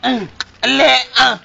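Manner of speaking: squeaky high-pitched game cry; high squeal. Pretend. Playful call-and-response game.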